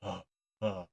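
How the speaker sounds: yelping dog, caught out and protesting; a dog squirming while pleading; hammed-up flustered dog. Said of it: "old Duke goes".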